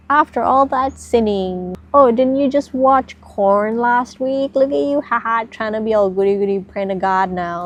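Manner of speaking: a hint of a taunting inner critic; mocking inner voice. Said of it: "it's gonna be like".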